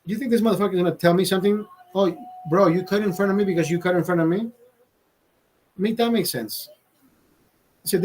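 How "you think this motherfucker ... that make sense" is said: higher, fast heated rant; retold angry rant. Telling his friend off in line, heated and fast. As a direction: fire it off like you mean it.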